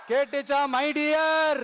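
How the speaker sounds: teasing call to a rival, last word held; affectionate taunt. Real, not acted. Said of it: "ஆசையா பாசமா கூப்பிட்டா". (ஆசையாக, பாசமாக சீண்டும் அழைப்பு)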